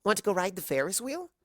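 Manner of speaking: bursting with a sudden idea; excitedly. A narrator's reading. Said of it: "turned back to her teacher excitedly".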